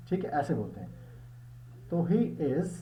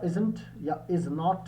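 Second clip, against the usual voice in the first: slow demo; much slower than usual. Shown as a demonstration. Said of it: "ये contracted forms हैं".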